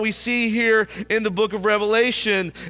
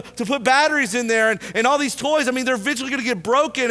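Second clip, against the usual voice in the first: put-on higher, complaining kid voice with a bit of a whine; whiny pessimistic son; 4 semitones higher than usual. Pessimistic son complains to his father, in a higher whiny voice. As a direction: whine about every toy like a spoilt boy.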